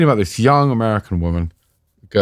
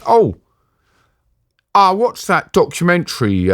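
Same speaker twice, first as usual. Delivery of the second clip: high, chirpy mocking captor voice, higher; mock gleeful captor; 10 semitones higher than usual. Captor gloating to the journalist about the Foley documentary, mock gleeful and high. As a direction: sing it out like a gloating thug.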